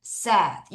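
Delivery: said with a short e, "sed"; pronunciation of said. Shown as a demonstration. Teacher contrasting past with present for learners, said pronounced "sed". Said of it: "요렇게 발음을 합니다".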